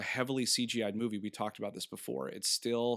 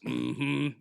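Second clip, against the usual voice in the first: Sling Blade grunt; 4 dB louder than usual. Retold or imitated. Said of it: "he talks like this and goes".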